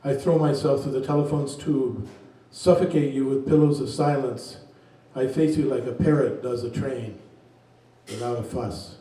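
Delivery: unhurried poetry reading voice; poem reading. Acted. Reads a poem aloud.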